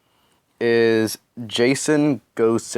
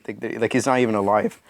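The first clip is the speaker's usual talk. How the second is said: voice crack. Real, not acted. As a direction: voice cracking on a rising word. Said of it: "Sorry, my voice cracked".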